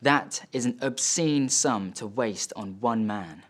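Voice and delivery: slow, deliberate insistence; disapproving dad. Acted. Dad to son defending the expense, slowly insistent. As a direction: press the judgement home word by word. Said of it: "And he says".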